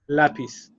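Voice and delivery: lápiz said LÁ-piz; penultimate stress. Shown as a demonstration. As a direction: put the weight on the first syllable of "lápiz". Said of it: "stress in the penultimate syllable".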